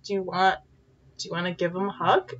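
soft, careful question; hushed, tender retold offer; gentle coaxing. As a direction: coax a frightened child softly. Coaxing a petrified girl gently.

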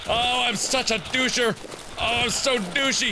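high, wailed self-scolding; self-reproach. Real, not acted. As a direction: moan at your own blunder. Berates self during fight.

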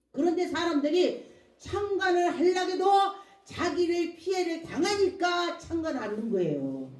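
emphatic sermon delivery; preaching. Real, not acted. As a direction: press the point to a congregation. Preaches with raised voice.

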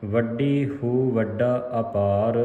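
slow phrase resting on ਅਪਾਰ; measured reading with a rest at ਅਪਾਰ; pause after ਅਪਾਰ. Shown as a demonstration. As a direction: draw out ਅਪਾਰ, then pause. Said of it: "ਇੱਥੇ ਵਿਸਰਾਮ ਲਾਉਣਾ ਹੈ".

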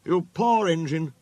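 pitying, voice lifted; sympathetic. A narrator's reading. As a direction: commiserate with a fellow engine. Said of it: "sympathised James".

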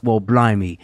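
hammed-up Cockney ad read; mock British accent, playful. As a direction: play a cheeky London geezer selling pills. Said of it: "Does the accent come with the Blue Chew?".

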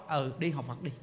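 low, soft go-ahead; understated, hushed permission; husband quietly consenting. Acted. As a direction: play a husband mildly giving in. Acts husband giving permission.

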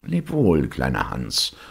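lightly voiced miller calling goodbye; miller's farewell.

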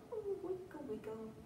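usual speaking voice

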